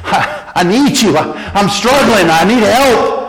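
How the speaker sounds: humble prayer for help; pleading prayer. Acted. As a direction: cry out for help, a little broken. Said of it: "cry out to the Lord and say".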